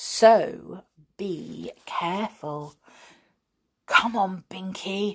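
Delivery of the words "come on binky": hushed whisper. Narrator reading a story, one character urging another: whispered. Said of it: "whispered Peter".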